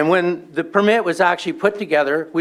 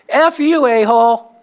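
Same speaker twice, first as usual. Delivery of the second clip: mock angry insult; 5 semitones higher, 4 dB louder than usual. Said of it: "The guy says".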